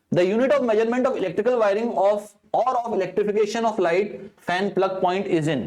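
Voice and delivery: slow, deliberate exam reading; question read-out. Acted. Teacher reading an exam question to students, slow and deliberate. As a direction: read each word of the question out slowly.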